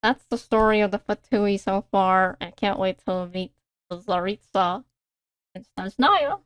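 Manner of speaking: put-on slow, deliberate Russian accent; lightly put-on Russian accent. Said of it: "I was talking in a Russian accent".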